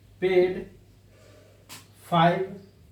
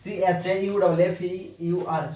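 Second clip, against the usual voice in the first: spelled out; slower than usual. Shown as a demonstration. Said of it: "spelling पे इसका ध्यान देना है".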